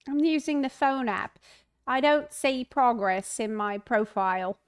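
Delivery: put-on New Zealand accent for reading aloud; imitated New Zealand accent. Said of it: "Talk the whole stream like that".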